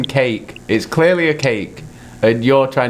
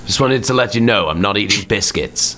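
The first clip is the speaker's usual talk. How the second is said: mock announcement. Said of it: "sit there going".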